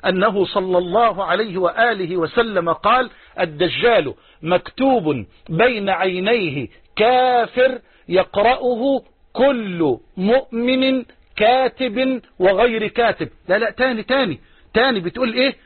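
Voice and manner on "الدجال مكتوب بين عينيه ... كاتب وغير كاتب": slow, deliberate quotation with drawn-out words; measured hadith recitation. Acted. Preacher quotes the Prophet to listeners, slow measured recitation. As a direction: recite it slowly, weighing each word. Quoting the hadith slowly to congregation.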